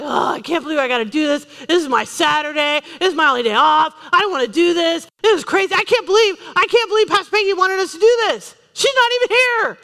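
hammed-up reluctant volunteer griping about Pastor Peggy; whiny complaining. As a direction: complain like a grumpy helper. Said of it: "somebody there like".

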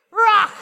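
"Ruach" belted out with a throaty CH ending; guttural Hebrew ch. Shown as a demonstration. Leading everyone together in Hebrew, "Ruach" loud and guttural. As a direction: punch out "Ruach", scraping the final CH. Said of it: "Let's speak Hebrew".

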